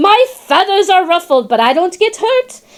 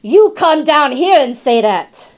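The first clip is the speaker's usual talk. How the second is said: angry dog. Retold or imitated. Dog shouting up at the squirrel on the cage. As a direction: bark it up at the squirrel. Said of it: "and he goes".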